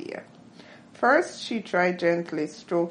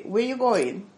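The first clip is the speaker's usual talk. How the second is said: quick undragged Jamaican "Where you going"; other parts of Jamaica, plain-ish; 4 semitones higher than usual. Shown as a demonstration. Contrasting other Jamaicans with downtown Kingston speech. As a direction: say it short, no drag. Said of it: "other parts would say".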